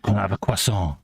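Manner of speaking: "croissant" said the French way, "kwassan", lightly put-on French accent; fake French accent. Mimicking restaurant ordering, a light fake French accent. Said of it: "that fake French accent".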